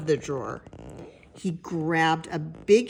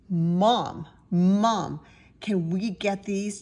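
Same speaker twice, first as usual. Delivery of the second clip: put-on pleading child; 4 semitones higher, 5 dB louder, slower than usual. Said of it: "Jasper pleaded".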